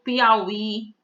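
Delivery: Piauí with a strong last syllable; stress on final Í. Shown as a demonstration. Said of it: "A sílaba forte é a última".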